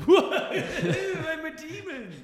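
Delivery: very high, loud, drawn-out hammy demon; mock demon audition. Mocking an actor's failed audition as possessed guy, hammy demon. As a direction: badly overact a possessed demon, clownish. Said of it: "the audition was just like".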